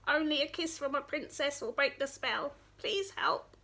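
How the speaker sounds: high little frog voice begging; a light frog's plea; pleading frog. Acted. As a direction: beg in a small frog voice.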